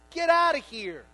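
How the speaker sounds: high, loud go away shouted; Jesus ordering the mourners away, loud; loud command. Retold or imitated. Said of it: "That's what he says".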